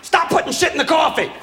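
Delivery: high, lightly voiced holy scold; mock heavenly complaint; a hint of a stern Madonna; Mary on screen. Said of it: "She'd just pop up on the screen and go".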